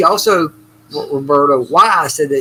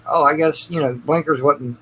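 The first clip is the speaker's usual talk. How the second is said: sarcastic. Retold or imitated. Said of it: "I'll say something derogatory like".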